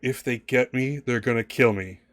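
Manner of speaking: put-on pleading little girl voice. Voicing a frightened girl begging the players: pleading girl's voice. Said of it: "the girl kinda looks at you guys pleadingly".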